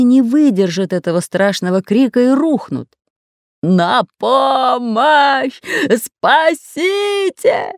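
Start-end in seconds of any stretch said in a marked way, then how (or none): 3.6-7.7 high, slow panicked wail for help; terrified wail. A narrator's reading. Pirate howling for help among snakes, terrified wail. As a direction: howl for help in terror. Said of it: "истошно завыл Бульбуль".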